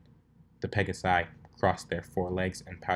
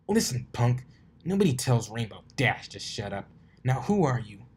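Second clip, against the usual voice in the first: louder, a touch of menace; tough threat; 4 semitones higher, 4 dB louder than usual. Acted. Rainbow Dash threatening the stranger, tough voice. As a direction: square up and threaten him.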